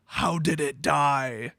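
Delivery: put-on a small child asking innocently, drawn out; little girl voice. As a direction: uncle imitating his niece asking how the rabbit died. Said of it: "And she goes".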